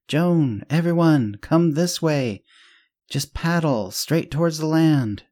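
high, loud, stretched-out calling; yelling. A narrator's reading. Swimmer urges the others toward the land, yelling. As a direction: call out long and loud to a scattered crowd. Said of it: "so she kept yelling".

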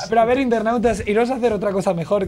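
exasperated mock lecture; mock scolding. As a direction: lecture the bloggers like a fed-up parent. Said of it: "que dices".

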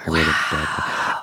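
low slow goofy apologetic voice; bad acting. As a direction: mumble it like a sheepish oaf. Mock apology in put-on voice.

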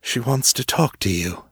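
a gentle, lightly soothing reply. A narrator's reading. Wells calming the angry ghost, mildly soothing. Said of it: "Wells said in a soothing tone".

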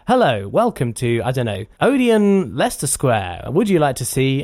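slow, even recorded-message voice; measured cinema announcement, each word spaced; automated cinema phone voice. Shown as a demonstration. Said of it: "what the film person said is say".

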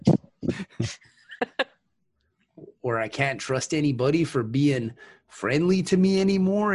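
put-on folksy Midwest accent. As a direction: talk like a friendly Midwesterner. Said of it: "I love your Midwest accent".

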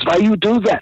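high-pitched imitated question; mock bewildered question, high; retold protest. Retold puzzled protest while blindfolded.

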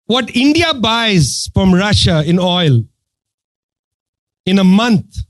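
slow, measured retold reply; very calm. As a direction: imitate his calm, deliberate explanation. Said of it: "he said very calmly".

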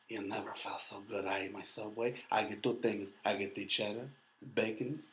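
soft, put-on Mexican accent; mock Mexican accent. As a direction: murmur it in a fake Mexican accent. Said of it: "why I added that accent".

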